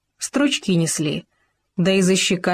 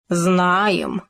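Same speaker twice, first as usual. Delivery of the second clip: pompous. Acted. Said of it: "важно сказал Хома".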